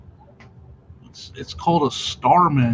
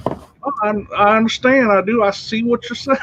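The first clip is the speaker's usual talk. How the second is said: loud, higher, fake country accent; 7 semitones higher, 3 dB louder than usual. Coworker to a country customer, put-on country accent. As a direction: mimic someone putting on a country accent. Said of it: "go right away to his country accent".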